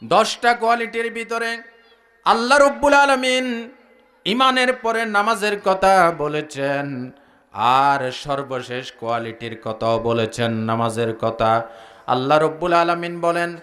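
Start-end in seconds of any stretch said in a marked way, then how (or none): 4.2-13.6 sing-song preaching. Acted. Preacher listing qualities for the congregation, chanted preaching. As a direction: intone it on a low, level note.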